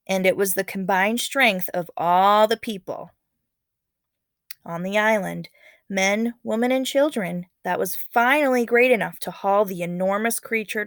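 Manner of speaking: lively read-aloud narration voice; story narration. A narrator's reading. Teacher reading a legend to students, expressive narration.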